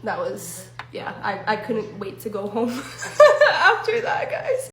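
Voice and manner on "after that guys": high, loud laughing wind-up. Real, not acted. Closing the scary story to viewers with a big laugh. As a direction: laugh it off, pitching way up.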